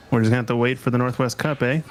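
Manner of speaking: put-on light Canadian accent, quick pace; a hint of Canadian accent, fast. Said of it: "my best Canadian accent attempt".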